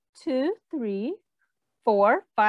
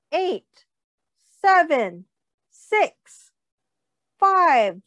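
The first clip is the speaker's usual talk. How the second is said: rising countdown, getting louder; 3 semitones higher, 3 dB louder, much slower than usual. Acted. Reader counting down for the children, building. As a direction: count down to the big moment.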